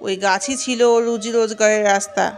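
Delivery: solemn, measured pronouncement on an even tone; all-knowing ghost chief. Acted. Ghost chief sends the ogress for magic water, solemn command. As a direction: hand down a stern instruction.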